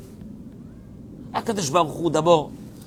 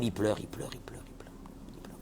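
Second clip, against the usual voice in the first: pleurnichement qui s'éteint; 6 semitones lower, 12 dB quieter, faster than usual. Retold or imitated. Mime les gens qui pleurent.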